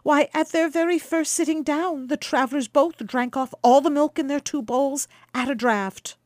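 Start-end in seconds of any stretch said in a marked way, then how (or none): 3.9-6.2 higher, louder polite request; cheeky young guest. Acted. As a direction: ask sweetly for more. Quicksilver asks for more milk.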